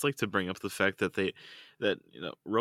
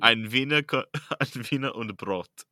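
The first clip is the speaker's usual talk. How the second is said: laughing tease; 5 semitones higher, 7 dB louder than usual. Real, not acted. Teasing German word for hot dog.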